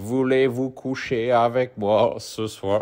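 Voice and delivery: put-on Bulgarian-accented speech. Retelling what a woman's best friend said to him, with a Bulgarian accent. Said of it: "avec un accent euh, bulgare".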